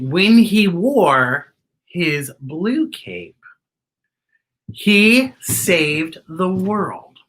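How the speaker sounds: slow, emphatic storybook read; dramatic story reading. A narrator's reading. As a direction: read it out grandly to kids. Reads book text slowly.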